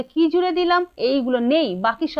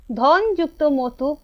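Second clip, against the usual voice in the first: each syllable drawn out slowly; slow teacher dictation; much slower than usual. Shown as a demonstration. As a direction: spell it out slowly for the class. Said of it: "teacher dictating the term".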